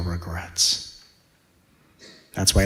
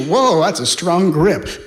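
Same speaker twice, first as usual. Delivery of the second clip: mock surprise; 10 semitones higher, 8 dB louder, slower than usual. Reaction to handshake.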